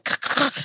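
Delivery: short voiceless crunching noise; imitated crash. Telling a friend the bumper fell off, imitated crash.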